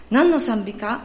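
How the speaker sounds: a pastor answering in light Kansai dialect; reply kindly in Kansai dialect; Kansai accent. Acted. Pastor voicing the Kansai pastor's advice, in a Kansai accent. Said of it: "ちょっとここから関西弁になりますので".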